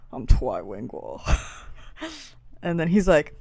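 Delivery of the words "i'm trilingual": shy unvoiced whisper. Admitting to the class she is trilingual, whispered. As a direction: breathe it out like a secret. Shy answer on note card.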